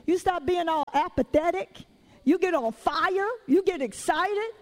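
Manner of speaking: rhythmic preacher cadence, punching each "you"; preaching. Acted. Preacher stirring the congregation toward praise. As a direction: build the congregation up, line by line.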